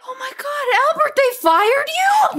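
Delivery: high, stunned cry; shocked. Acted. Sister learning brother got fired, high shocked cry. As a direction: gasp it out in shock.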